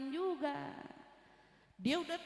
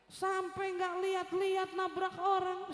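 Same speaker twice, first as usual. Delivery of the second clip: raging man imitated; 5 semitones higher than usual. Angry man accusing driver of hitting someone, mock rage. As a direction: accuse like an irate pedestrian, lightly acted. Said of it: "Ngamuk-ngamuk dia".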